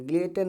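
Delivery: ग्लेटन as "glay-ten", t sounded; wrong pronunciation. Shown as a demonstration. Teacher listing readings to avoid, t sounded. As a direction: say ग्लेटन with no s and a clear t. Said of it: "नहीं पढ़ा जाएगा".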